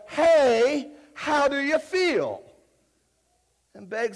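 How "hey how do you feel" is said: high, loud, hyped-up greeting; real loud. Retold or imitated. Preacher greeting the crowd, loud and hyped up. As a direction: boom it out like a stage host. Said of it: "He said real loud".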